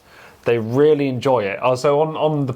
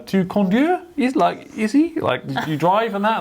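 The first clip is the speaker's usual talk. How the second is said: much higher, halting voice trying out French; eager beginner French; 10 semitones higher, slower than usual. Retold or imitated. Chatting to the French guy on the plane, high and eager. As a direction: squeak it out like a nervous learner. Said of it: "I was like".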